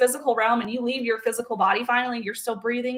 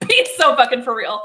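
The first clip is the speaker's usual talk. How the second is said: louder, laughing through the words; laughing disbelief; 6 dB louder than usual. Real, not acted. Mocking the man with laughter, louder. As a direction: crack up at the absurdity. Repeating her punchline, now laughing.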